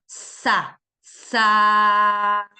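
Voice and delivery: "sa" drawn out loud; prolonged syllable. Shown as a demonstration. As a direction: hold the s of "sa". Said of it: "Prolongo el sonido". (sílaba prolongada)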